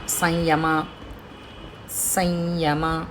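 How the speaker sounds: సంయుత with the ం as a nasalized vowel; nasal sound in samyuta. Shown as a demonstration. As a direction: sound సంయుత through the nose. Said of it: "నాజిల్ sound ముక్కుతో". (సంయుత లో సున్నా ముక్కుతో పలకండి)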